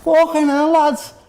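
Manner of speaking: high-pitched, thrilled disbelief; stunned elation. Real, not acted. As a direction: exclaim it high, overwhelmed by the goal. Stunned celebration after the goal.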